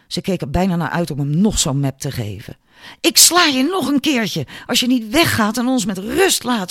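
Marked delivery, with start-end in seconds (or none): 3.0-6.7 high-pitched, angry yell; shouted threat. A narrator's reading. Julia threatens Albert with the stick, shouting. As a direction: yell the warning in rising rage. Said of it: "schreeuwde ze".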